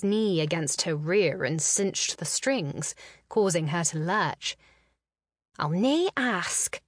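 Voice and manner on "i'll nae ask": gasped. A narrator's reading. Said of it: "she gasped".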